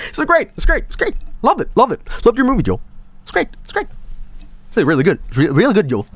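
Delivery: high, gushing mock German accent; German impersonation. Joel imitating Germa gushing over his movie, German accent. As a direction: rave about the movie in an overdone German accent. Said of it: "German impersonation".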